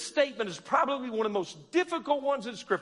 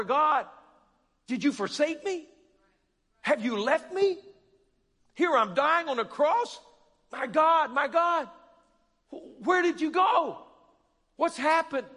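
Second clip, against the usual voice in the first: Jesus pleading with God; 4 semitones higher than usual. Acted. Voicing Jesus questioning the Father.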